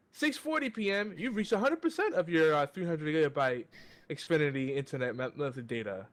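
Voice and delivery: automated notice in a faltering fake Indian accent; poor Indian accent. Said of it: "I can't even do my Indian impression".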